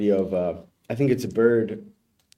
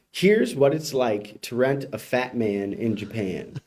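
headline read; slower than usual. Shown as a demonstration. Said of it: "So headline reads".

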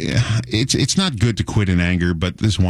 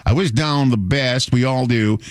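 put-on Southern accent; 2 semitones higher than usual. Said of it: "in a real Southern accent, he was talking like this".

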